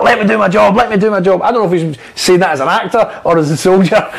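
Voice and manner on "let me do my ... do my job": urgent plea. Retold or imitated. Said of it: "he's like".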